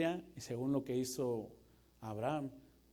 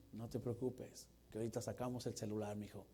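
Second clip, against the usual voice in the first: softer, lower soothing dad; calm dad; 4 semitones lower, 5 dB quieter than usual. Acted. Acted father calming his son, softer and lower. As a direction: reassure the kid easily.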